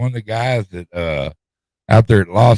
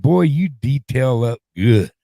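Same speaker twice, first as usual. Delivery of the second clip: slow drawled boss quote; 4 semitones higher, slower than usual. Retold or imitated. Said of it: "He said".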